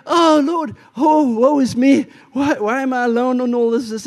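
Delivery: hammed-up woe-is-me cry to heaven; mock lament. Acts out own lament to God.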